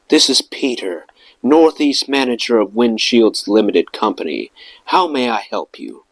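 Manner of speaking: lightly pompous, like a Concorde captain; a hint of a self-important manager. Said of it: "he went in this very pompous voice".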